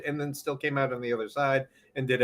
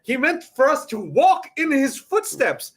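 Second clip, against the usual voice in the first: mock pious preacher; 11 semitones higher, 4 dB louder than usual. Mock pious Jesus line.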